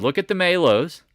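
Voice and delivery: pumped self-quote; emphatic quote. Retold or imitated. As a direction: hit it hard like you told them. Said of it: "I said".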